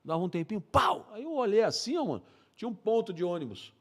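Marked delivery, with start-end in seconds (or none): 0.6-1.1 higher-pitched vocal gunshot; sudden "pau" sound effect; imitated gunshot. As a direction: mimic a lone distant shot. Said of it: "comecei a escutar uns tiros".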